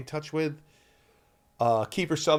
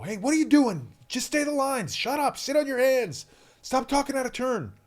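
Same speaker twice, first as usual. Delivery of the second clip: imagined scolding; 11 semitones higher than usual. Retold or imitated. Kid imagining the director scolding him, mock stern. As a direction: play the scolding boss you expect. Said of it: "yell at me and say".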